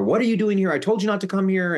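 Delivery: high-pitched imitation of an outraged aunt; retold indignant scolding. Aunt retold confronting Annie at door.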